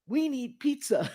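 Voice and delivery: slow, high and loud "We need pizza" again; confident plea. Retold or imitated. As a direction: state it with complete certainty. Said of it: "he says it with such confidence".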